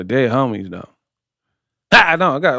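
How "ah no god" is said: sudden mock-accented outburst; imitated boxer accent, abrupt; Triple G. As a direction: catch them off guard with a foreign-accented cry. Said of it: "like, you trying to catch you off guard".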